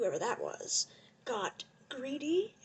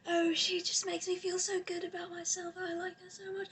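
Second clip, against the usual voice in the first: put-on higher-pitched Steven-style accent; Steven's accent; 5 semitones higher, 4 dB quieter than usual. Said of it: "I'm gonna do the accent".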